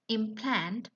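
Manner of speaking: "implant" with the stress on PLANT; stress on second syllable. Shown as a demonstration. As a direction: say "implant" as a verb, imPLANT. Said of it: "when you give different stress in the word".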